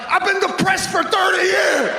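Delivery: high, loud shouted father voice; mock father. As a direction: yell it like a fed-up old dad. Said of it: "My father's like".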